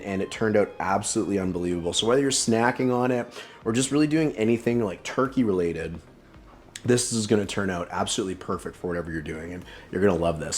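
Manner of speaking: talking with a mouthful of food; words round a bite of food; mouth full. Real, not acted. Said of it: "sorry, I'm talking with my mouth full".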